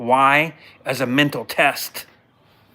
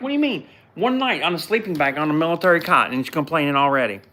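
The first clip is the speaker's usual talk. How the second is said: incredulous; 3 semitones higher than usual. Retold or imitated. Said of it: "I'm like".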